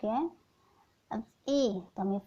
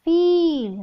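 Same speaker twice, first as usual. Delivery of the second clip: फील said higher and louder; teacher announcing the word फील; emphatic answer; 5 semitones higher, 8 dB louder, much slower than usual. Shown as a demonstration. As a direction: call out फील clearly. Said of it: "what is pronounced letter".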